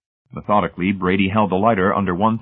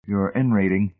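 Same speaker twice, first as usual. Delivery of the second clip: puzzled echo. Acted. Hamilton echoing the technician's demand, puzzled. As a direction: echo it, unsure what it means.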